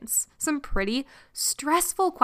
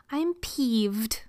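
whispered "peeved". Shown as a demonstration. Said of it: "It's hard to say peeved without laughing".

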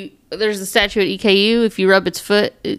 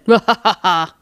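imitated guide laugh. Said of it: "the laugh, too".

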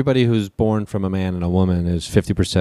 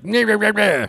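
higher-pitched garbled Scottish imitation; mock Scottish; 9 semitones higher, slower than usual. Friend imitating the nicknamed marmot guy, garbled mock Scottish. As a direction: parody an incomprehensible Scottish burr. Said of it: "doing a Scottish accent is very fun".

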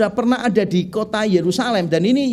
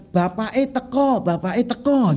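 put-on Javanese accent; 3 semitones higher than usual. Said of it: "kalau orang kita itu bilang".

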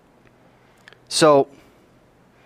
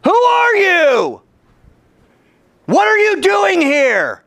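high, loud, slow drawn-out challenge; booming voice; 5 dB louder, much slower than usual. Acted. Sentry challenges the rabbi from the darkness, booming. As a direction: boom it out slowly from the darkness. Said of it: "out of the darkness comes this booming voice".

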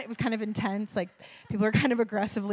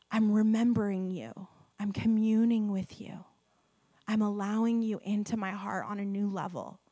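intimate prayer. Pretend. Voicing intimate prayer to God.

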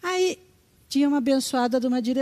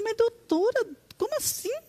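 high-pitched disbelieving cry; shocked; 10 semitones higher than usual. Retold or imitated. Telling the doctor she can't believe two years of medication, shocked high cry. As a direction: voice jumps up in disbelief.

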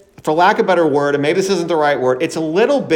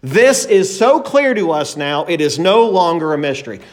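confident declaration. Retold or imitated. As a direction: declare it with total self-assurance. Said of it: "declaring in their own confidence".

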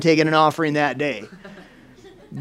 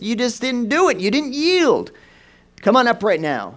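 rising to a loud high preacher's call; 5 semitones higher, 5 dB louder than usual. Retold or imitated. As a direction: build from firm to a loud high call from the pulpit. Pastor retells preacher calling out.

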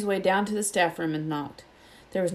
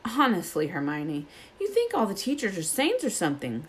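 mild snap; 2 semitones higher than usual. Acted. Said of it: "snapped Ron".

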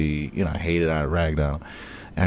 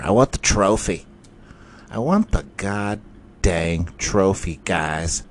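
a higher, keen fan voice; mock fantasy fan; 3 semitones higher than usual. Fan hyping his own draft, lightly voiced higher and eager. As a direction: sell it like an eager fantasy player. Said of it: "and they're like".

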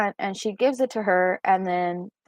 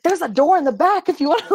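coworker challenging; 8 semitones higher, 4 dB louder, faster than usual. Retold or imitated. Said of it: "My coworker's like".

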